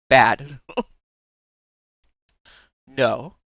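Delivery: normal talking voice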